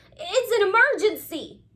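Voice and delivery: high, loud, urgent emergency cry. A narrator's reading. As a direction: sound like it's life or death, high and loud. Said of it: "cried Ozzie".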